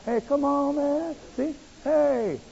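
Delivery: high, mock chummy church folks; fake friendly. Religious folks fawning over Bartimaeus.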